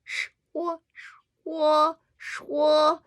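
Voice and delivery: 说 repeated on one high, level note; sing-song 说. Shown as a demonstration. Teacher drilling 说 for learners, sing-song. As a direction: chant 说 high and level, loud by the end. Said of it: "It's like singing".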